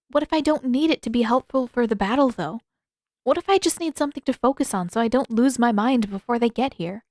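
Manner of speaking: put-on stubborn young waterbender pleading her case; Katara, frustrated. Katara voiced.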